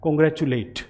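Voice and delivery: कांग्रेचुलेट with a full "late" ending; verb ending ate. Shown as a demonstration. Teacher showing the verb form to students: कांग्रेचुलेट ending in late. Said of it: "इसे मैं कांग्रेचुलेट ही बोलूँगा".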